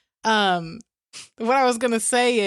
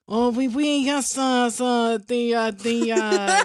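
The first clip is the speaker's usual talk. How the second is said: put-on halting, failed French accent; bad French accent; 2 semitones higher, slower than usual. Co-host retelling game night, bad French accent. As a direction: flounder through a badly faked French accent. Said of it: "talk for the rest of the night in a French accent".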